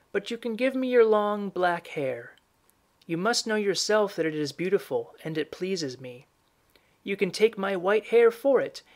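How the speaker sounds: lightly played old woman instructing the mother; old woman character. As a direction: voice the old woman a little high.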